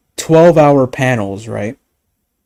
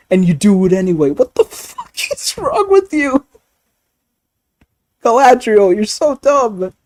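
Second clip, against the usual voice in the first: squeaky frustrated ranting, much higher and louder; high-pitched exasperated rant; 9 semitones higher, 3 dB louder than usual. Real, not acted. Scolding Galadriel about the rings, a high exasperated rant.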